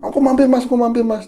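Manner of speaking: high, bright mock call; imitating a cheery call. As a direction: sing out the promise to drop by.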